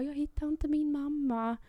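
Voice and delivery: put-on high, slow small child voice; child telling staff she lost mum; lost little child. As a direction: sound like a lost little kid.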